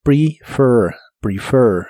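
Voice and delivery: "prefer" with short i and the tongue pulled far back on the final r; "prefer" con la lengua atrás; retracted r demo. Shown as a demonstration. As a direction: growl the end of "prefer" like a little monster. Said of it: "debe sonar como monstruo".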